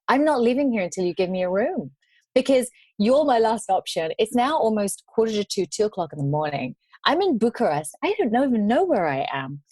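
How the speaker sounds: firm, insistent retold ultimatum; controlled exasperation, standing your ground; calmly losing it. Stranded traveller to hotel desk, calmly losing it. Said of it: "I lost it in a very calm way".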